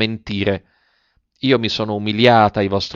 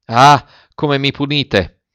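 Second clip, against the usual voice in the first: anguished outburst; 4 semitones higher, 4 dB louder, slower than usual. Acted. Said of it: "scoppiò in un accento indescrivibile".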